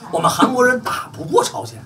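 high and rising on 过, almost a question; blunt admission. Retold or imitated. Retelling what the Koreans admitted, high and rising. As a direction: pitch it up like a blunt confession. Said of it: "人就直话直说".

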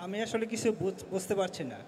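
echo. Real, not acted. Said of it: "too much echo".

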